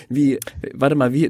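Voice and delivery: ordinary talk, nothing marked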